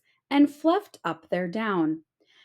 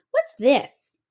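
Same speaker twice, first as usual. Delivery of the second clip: curious Tomten; 4 semitones higher, 4 dB louder than usual. A narrator's reading. Tomten finds acorn.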